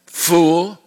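sharp rebuke on Fool; exclamation. Acted. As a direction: snap out the word Fool as God's rebuke. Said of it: "with an exclamation point".

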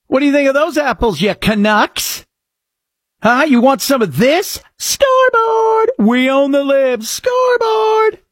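high taunting fan voice with stretched shouts; mock gloating. Host parodies fans taunting Canada, high mocking gloat. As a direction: taunt the Canucks like a smug fan. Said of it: "I just go".

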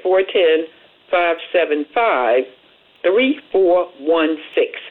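each digit slow and spaced out; slow dictation. Shown as a demonstration. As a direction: read the number out slowly, digit by digit. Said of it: "give them a call at".

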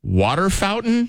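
high, slow over-enunciated correction; teacher correcting. Retold or imitated. Teacher correcting the new kid, high and slow. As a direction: spell it out slowly like a teacher. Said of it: "She's like".

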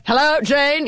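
high-pitched projected greeting, half shouted; mock stage yell. Actress demonstrating her unmiked stage entrance, mock yell. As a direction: hail someone across a theater, playfully overdone. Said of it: "starting to yell".

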